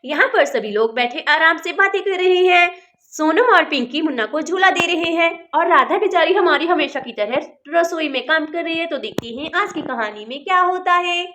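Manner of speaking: friendly storyteller voice introducing the tale; a cheerful children's story narrator; story narration. A narrator's reading. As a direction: welcome the kids into the story.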